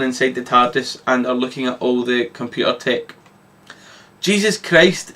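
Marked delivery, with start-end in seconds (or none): 4.2-5.1 1 exclaiming. Acted. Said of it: "exclaims Shaggy".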